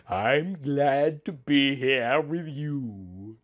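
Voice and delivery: said softly and slowly; gentle, unhurried tenderness. Acted. She tells her husband softly and slowly she is glad. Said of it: "I said softly".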